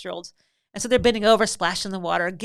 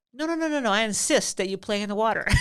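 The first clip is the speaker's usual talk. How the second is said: mock insistence; 3 semitones higher, 4 dB louder than usual. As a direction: keep them going, barely holding back laughter. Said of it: "And I said".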